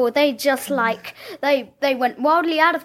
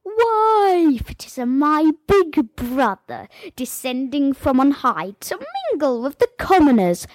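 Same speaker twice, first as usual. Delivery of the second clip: villain line. Shown as a demonstration. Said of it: "can you all remember one of your lines?".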